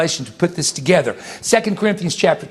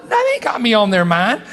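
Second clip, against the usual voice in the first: moved, emphatic answer; 3 semitones higher than usual. Retold or imitated. Preacher assuring himself the dead think of him, tearful emphasis. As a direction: answer your own doubt, overcome. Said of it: "I'm thinking to myself".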